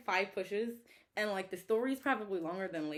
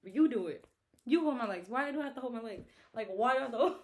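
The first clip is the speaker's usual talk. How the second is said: louder, higher indignant outrage; a mild replay of her fury; retold anger; 4 semitones higher, 5 dB louder than usual. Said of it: "I was so angry".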